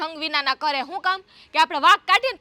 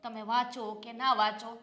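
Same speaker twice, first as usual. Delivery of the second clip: much softer, lower, hurt; wounded reproach; 7 semitones lower, 11 dB quieter than usual. Acted. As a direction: reproach him quietly.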